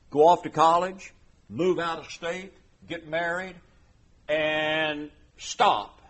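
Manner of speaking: a hurt parent protesting, burst of loudness mid-list; indignant parent. Acted. Preacher acting out a parent defending their raising of children. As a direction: insist you did your part.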